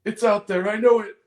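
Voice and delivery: put-on high, loud awestruck kid voice; whisper-cheer it like an amazed child; childlike wonder. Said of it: "standard childlike wonder voice".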